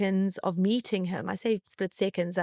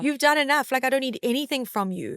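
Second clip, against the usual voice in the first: higher, firm no thanks; firm refusal; 5 semitones higher than usual. Retold or imitated. Telling her mentor she needs nothing, firm refusal. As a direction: turn the offer down firmly, pitched up. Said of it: "I was like".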